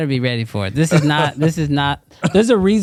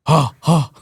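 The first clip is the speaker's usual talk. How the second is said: ordinary talk, nothing marked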